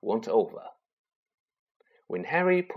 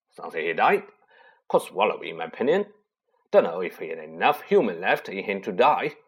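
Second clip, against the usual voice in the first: lower, rough giant voice; gruff Hagrid; 3 semitones lower than usual. Acted. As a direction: talk like a rough gamekeeper. Hagrid voiced, quoted from memory.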